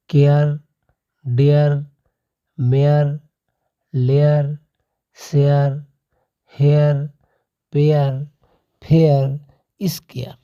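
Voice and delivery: केयर, डेयर, मेयर with an eh-yar glide, each word apart; example words read out. Shown as a demonstration. Teacher reading the ARE examples to students. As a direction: drill केयर डेयर मेयर लेयर शेयर हेयर slowly. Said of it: "जैसे दिया है".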